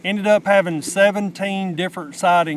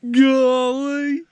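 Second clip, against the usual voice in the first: higher, rising golly; delighted exclaim; 8 semitones higher, 3 dB louder than usual. Real, not acted. Admiring the buck beside his partner, a high delighted golly. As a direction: marvel at the size.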